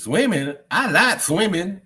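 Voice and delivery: high, slow mock Cody voice; drawn-out sing-song imitation; imitating Cody. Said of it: "Cody says".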